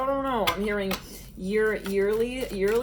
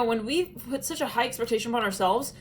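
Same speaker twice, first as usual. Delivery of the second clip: ordinary talk, nothing marked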